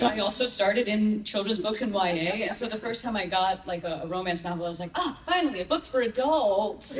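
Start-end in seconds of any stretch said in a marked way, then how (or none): 4.9-7.0 exaggerated delight with a laugh in it; mock relief. Narrator recalls getting a first romance novel, playfully delighted.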